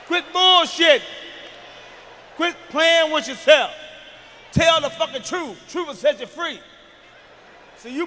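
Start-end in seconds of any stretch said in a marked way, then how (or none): 0.1-6.6 high, loud scolding; scolding shout. Acted. Comic scolding the parents in the crowd, shouting. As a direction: yell at them to quit it.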